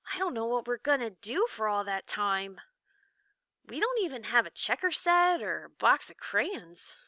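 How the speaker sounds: lightly voiced young boy, glum; a boy fretting about the long wait; Milo, worried boy. Young Milo grumbles to Talk about prison, mildly glum.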